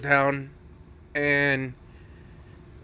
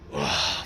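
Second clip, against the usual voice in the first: low, breathy sighed "ah"; sighing, acted-out contentment; blissful groan; 12 semitones lower, 4 dB quieter than usual. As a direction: let out a low, airy sigh of pleasure. Deku's blissful sigh in retold story.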